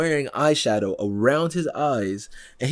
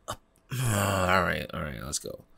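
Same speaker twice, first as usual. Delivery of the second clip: much quieter defeated let's go; weary resignation; 4 semitones lower, 5 dB quieter than usual. Retold or imitated. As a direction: give up and drag yourself along. Weary viewer resigning to Riddler.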